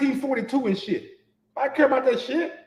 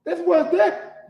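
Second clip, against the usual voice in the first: ordinary delivery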